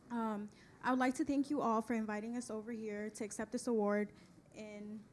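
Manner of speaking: quiet, nervous first speech; hesitant and soft at the mic; stage fright. Real, not acted. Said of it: "I'm a bit nervous".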